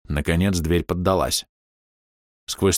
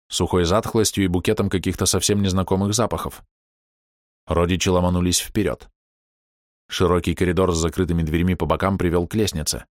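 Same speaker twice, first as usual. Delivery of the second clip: plain reading voice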